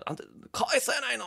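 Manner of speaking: retold mum telling off her son; scolding mother. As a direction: play the mum scolding her boy mid-slap. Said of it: "バーンって".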